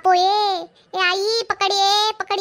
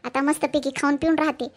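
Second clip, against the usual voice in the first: smug aside; 5 semitones lower than usual. Acted. Shila's smug aside to camera.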